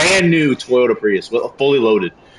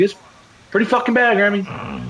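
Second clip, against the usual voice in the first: high, strained whine; pitched-up complaint; 10 semitones higher than usual. Retold or imitated. Telling Grammy how bad the wreck is, high and strained. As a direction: voice jumps up in distress. Tells grandma car is wrecked.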